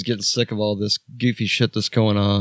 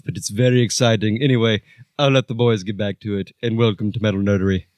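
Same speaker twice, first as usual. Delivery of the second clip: Nigel voice; 3 semitones higher than usual. Acted. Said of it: "Thanks, Nigel".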